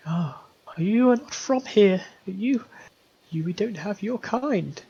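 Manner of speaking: put-on high, pleading old woman's voice; high tearful mother pleading at the door; desperate grieving mother.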